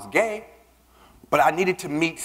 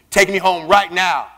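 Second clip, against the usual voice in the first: slow, louder, insistent order; firm demand; 3 semitones higher, 5 dB louder than usual. Retold or imitated. After the kiss, slow firm insistence. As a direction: lay down the order word by word. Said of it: "I say".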